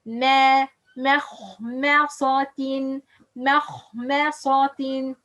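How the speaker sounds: slow "مخمصة", light meem, heavy kha and sad; light-heavy balance. Shown as a demonstration. Teacher models balance between heavy and light. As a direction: sound out "مخمصة" switching thin and thick letters. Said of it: "balance between heavy and light".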